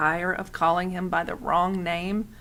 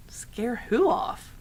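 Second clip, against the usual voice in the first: whispered; 4 semitones higher, 5 dB quieter, slower than usual. A narrator's reading. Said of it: "Edward wondered".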